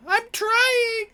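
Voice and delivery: very high, strained yell from afar; shouted reply. Acted. Crew member at the helm calling back, high frantic shout. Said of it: "You hear coming back from".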